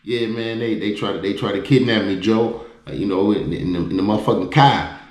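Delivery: mild imitation of a Chicago friend. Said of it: "with the Chicago voice".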